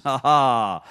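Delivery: short, low deliberate ha-ha; a dry, put-on laugh between verse lines; mock laugh. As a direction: drop in a stagey chuckle.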